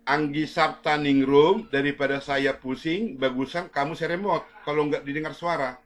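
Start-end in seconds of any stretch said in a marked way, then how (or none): 0.1-1.7 calling out. Real, not acted. Third call to student.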